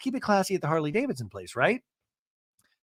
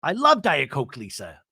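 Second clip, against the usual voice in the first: sarcastic; 4 dB louder than usual. Retold or imitated. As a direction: parrot agreement with mock sweetness. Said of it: "She wants you to say".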